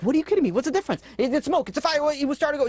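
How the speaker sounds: can't believe what he's hearing; outraged disbelief. Retold or imitated. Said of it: "He's like".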